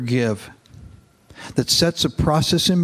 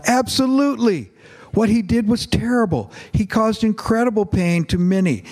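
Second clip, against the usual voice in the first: quick response; 8 semitones higher than usual. Acted. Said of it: "Papa was quick to respond".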